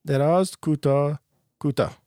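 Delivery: دراز rising, then کوتاه، کوتاه lighter and falling; long-short-short beat. Shown as a demonstration. Teacher to class, chanting the three-beat rhythm.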